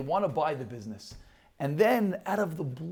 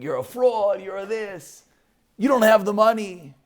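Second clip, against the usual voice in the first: retold screaming crowd; 6 semitones higher, 7 dB louder than usual. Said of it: "they all start screaming".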